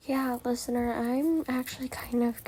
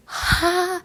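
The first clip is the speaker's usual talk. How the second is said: gloating laugh; 8 semitones higher, 5 dB louder than usual. Acted. Gloating at sibling.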